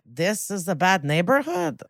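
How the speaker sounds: put-on half-committed Russian accent; weakly attempted Russian accent; bad Russian accent. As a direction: try a Russian accent and don't quite commit. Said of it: "I'm really bad at accents".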